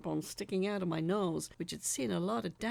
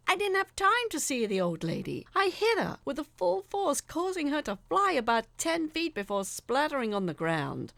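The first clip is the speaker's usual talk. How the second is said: tense; 8 semitones higher, 6 dB louder than usual. A narrator's reading. Narrating hitting the old lady.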